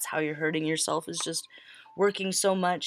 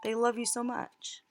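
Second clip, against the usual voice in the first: higher, alarmed what are you doing; higher, pleading no no no; startled disbelief; 7 semitones higher, 3 dB louder than usual. Retold or imitated. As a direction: panic as they realise you're leaving. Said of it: "when they're like".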